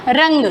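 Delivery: रंग drawn out slowly with a strong nasal ng; nasal demo word. Shown as a demonstration. Hindi teacher to students, slow nasal demo. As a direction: slowly sound out रंग so the air leaves the nose. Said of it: "देखो कंग".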